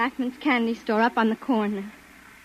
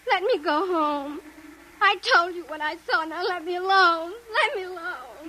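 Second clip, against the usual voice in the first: tearful pleading; 3 semitones higher than usual. Acted. Distraught witness begging.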